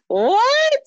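high squeak of disbelief; an outraged, high-pitched what; shocked what. Retold or imitated. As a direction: react as if the question stings. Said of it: "I'm like".

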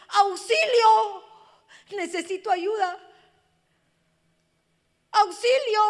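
long, high, loud desperate call; cry for help. Pretend. Preacher voicing a hurting daughter, loud, high cry for help. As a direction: cry out slowly for rescue. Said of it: "lo único que te están diciendo es".

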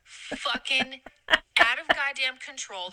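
slow, exasperated cursing; pissed off. Real, not acted. Ranting to a friend about Robin Hood, slowly pissed off. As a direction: drag out the swearing in real exasperation. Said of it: "I'm so fucking pissed about it".

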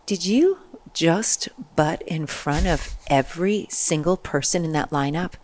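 slow, accusing officer voice; stern officer. Retold or imitated. Customs officer scolding line-jumping traveler, slow accusing voice.

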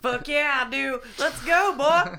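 loud, high bro war cry; barbarian. Retold or imitated. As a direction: roar it like a brawler itching to fight. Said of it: "And he was like".

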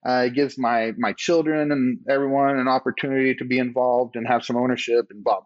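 imitating yourself listing reasons; throwing out reasons. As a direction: reel off excuses, retelling your own defence. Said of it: "just throw out all these reasons".

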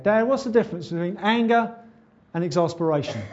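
a hint of a curious child; son asking. Son asking his dad a question, lightly voiced child.

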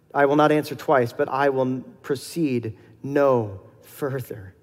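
slow, solemn Bible reading; scripture reading. Acted. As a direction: read the verse with weight, pausing. Reads scripture passage aloud.

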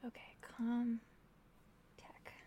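breathy whisper under the breath. Real, not acted. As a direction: whisper it to yourself. Whispering while rolling dice.

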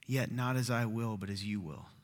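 soft, low plea to a father; hushed, heavy-hearted submission; praying. Acted. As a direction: pray it quietly, face down. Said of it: "and prayed".

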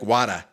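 "Water" as "wah-tah", open ah and no R; Boston "water". Shown as a demonstration. Showing co-host Boston speech, "Water" as "wah-tah". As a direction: say "Water" with broad Boston ah vowels. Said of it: "Boston would be like".

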